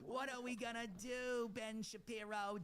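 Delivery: put-on high whiny Yiddish accent. Mock Jewish voice to Ben Shapiro.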